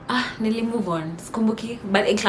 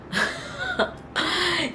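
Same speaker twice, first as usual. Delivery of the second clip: high laugh mid-story; 11 semitones higher, 3 dB quieter than usual. Real, not acted. Storyteller cracks up recalling the teacher's words, laughing. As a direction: break off into a laugh.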